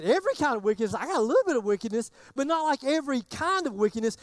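"every" stressed in disbelief; mock indignant. Churchgoer bargaining over "every kind of wickedness", mock indignant. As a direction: echo the verse back as a doubting churchgoer. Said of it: "you're probably thinking".

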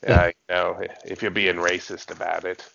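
throaty put-on Aussie voice; mock Aussie like Crocodile Dundee; Australian accent. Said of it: "you're sounding kinda like Crocodile Dundee".

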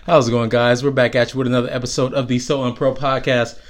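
muffled behind a mask; talking through a face mask. Real, not acted. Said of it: "Why do I got this mask on my face?".

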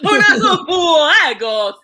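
slow, loud laughing cry; laughing cheer. Real, not acted.

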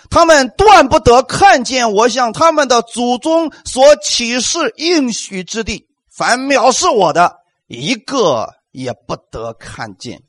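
slow, weighty pronouncement; solemn divine judgment, slowed; solemn scripture reading. Acted. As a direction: read God's verdict with gravity. Reading God's verdict slowly.

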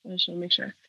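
stuffy nose, congested; blocked nose. Real, not acted. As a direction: speak through a blocked nose. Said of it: "She's just stuffy, super stuffy".

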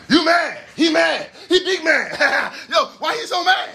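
high-pitched teasing with laughter; mocking taunt.

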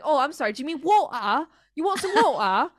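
sarcastic apology in put-on British accent; mock British accent. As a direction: throw back an exaggerated British "wo'ah". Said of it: "And I'm like".

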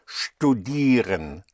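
"Studieren" slowly, opening on sht. Shown as a demonstration. Teacher shows German st, "Studieren" slowly with a sh sound. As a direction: say "Studieren" as shtu-DEE-ren, drawn out. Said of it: "S H P or S H T".

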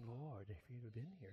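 mock the stiff film line; preacher mocks solemn Christian movie delivery; solemn movie version. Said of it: "he's just so solemn".

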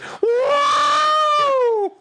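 high droid whistle noise; excited R2-D2 squeal. Retold or imitated. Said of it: "R two D two when he's excited".

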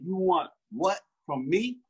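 slow, probing challenge; slow pointed question. Retold or imitated. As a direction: drag out "You want what from me?" slowly, leaning on it. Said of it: "trying to make him realize who I am".

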